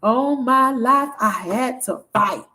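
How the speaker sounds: slow, lightly imitated movie line; Oprah. Repeating what she heard, lightly imitated slow voice. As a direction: draw out the famous line with weight. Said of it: "I heard her voice".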